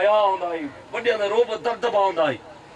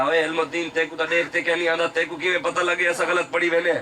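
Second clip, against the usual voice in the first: low-pitched, quick quoted retort; elder's retort; 3 semitones lower than usual. Retold or imitated. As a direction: drop low to voice the elder questioning him. Voices the Pir answering Ilm Din.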